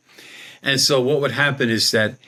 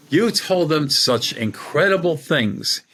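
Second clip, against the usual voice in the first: higher, slow imitation of an English accent; 4 semitones higher, slower than usual. English psychic reassures the dejected speaker, imitated English accent. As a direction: lightly imitate an English woman, pitched up. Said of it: "with her English accent".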